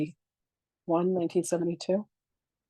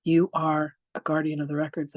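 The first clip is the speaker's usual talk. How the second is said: soft welcome; 3 dB quieter than usual. Retold or imitated. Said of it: "And they said".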